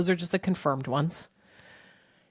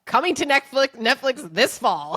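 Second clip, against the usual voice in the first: mock trailer voice; 6 semitones higher, 5 dB louder than usual.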